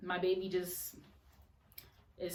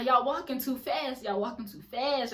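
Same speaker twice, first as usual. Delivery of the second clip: acted winded complaint; 3 semitones higher, 3 dB louder than usual. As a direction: call after walkers who are leaving you behind. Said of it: "it just felt like".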